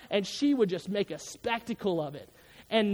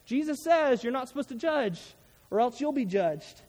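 higher, mocking defensive tone; mocking whiny voice; 4 semitones higher than usual. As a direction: parrot them scornfully. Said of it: "They say".

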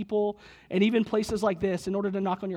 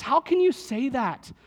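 lightly acted protest, higher pitch; Anna; 4 semitones higher than usual. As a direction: quote a sister's objection. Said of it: "And Anna says".

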